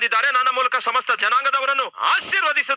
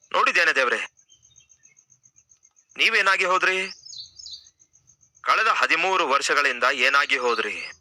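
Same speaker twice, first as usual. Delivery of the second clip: lower, hurt questioning of God; reproaching God; 6 semitones lower than usual. Acted. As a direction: ask God where he went, aggrieved. Preacher as Abraham reproaching God.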